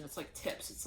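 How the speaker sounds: soft unvoiced aside; whispering. Real, not acted. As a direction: drop to a whisper. Sudden whisper.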